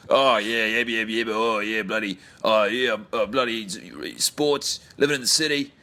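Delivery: hammed-up Aussie accent, a lightly done crowd babble; mock Australian crowd. Mocking the film's fake Aussie crowd, lightly put-on Australian accent. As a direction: mimic the dubbed Australian crowd chatter, Australian accent. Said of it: "what they think Australian people sound like".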